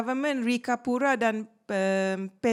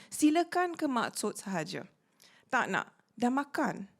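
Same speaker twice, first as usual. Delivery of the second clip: ordinary talk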